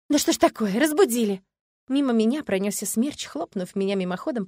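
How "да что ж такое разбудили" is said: woeful exclamation. Acted. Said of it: "горестно воскликнула".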